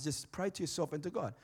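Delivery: softened, as if to yourself; quiet, inward delivery; not really loud. Shown as a demonstration. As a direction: drop the volume for private prayer. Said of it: "So I won't say it really loud".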